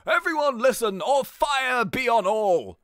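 slow, lightly put-on classroom command; lightly voiced teacher. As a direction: read it out as a commanding teacher, drawn out. Reads out Mister Drago's classroom lines.

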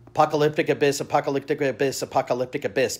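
Apocalyptic Abyss spoken fast as a challenge; tongue twister. Shown as a demonstration. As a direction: rattle off Apocalyptic Abyss three times. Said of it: "Challenge accepted".

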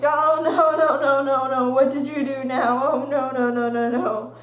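put-on panicked mother fussing over her fallen kid; mom's dismay. Mom rushing over to fallen child, dismayed. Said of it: "going like".

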